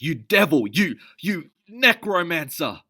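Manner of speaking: high, loud, slowing on the last word; furious accusations, stammering at the end; angry shouting. Acted. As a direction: spit out each insult. Fight, Elvin keeps shouting.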